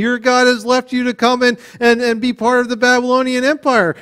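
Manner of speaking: mild acted mockery, pitch climbing; lightly voiced scoffer; mocking. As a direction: make fun of a believer, building as you go. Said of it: "they were making fun of them".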